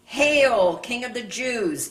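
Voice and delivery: loud, high jeering salute; mocking. A narrator's reading. Soldiers jeering at Jesus, loud mocking salute. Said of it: "and mocked him".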